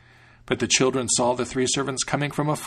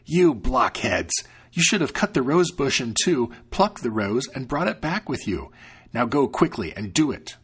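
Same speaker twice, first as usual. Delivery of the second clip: scolding. Acted. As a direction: berate them like a cross cook. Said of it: "Then the cook scolded them".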